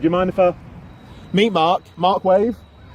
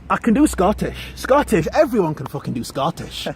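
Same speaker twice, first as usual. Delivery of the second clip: higher-pitched start in a Scottish accent; attempted Scottish accent; 4 semitones higher than usual. Shown as a demonstration. Auditioner defending his accent skills to Mark, Scottish accent. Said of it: "asked to do a Scottish".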